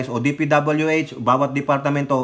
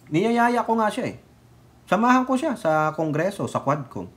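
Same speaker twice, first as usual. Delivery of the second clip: higher put-on voice "niyayaya ko nga siya eh"; mock Pulong; 6 semitones higher than usual. Commentator paraphrasing Pulong's interview, higher mocking voice. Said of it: "Ang sabi niya, hindi po ito verbatim".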